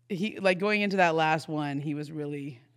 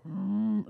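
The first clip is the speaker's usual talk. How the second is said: imitated wordless mm; 3 semitones higher than usual. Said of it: "like that".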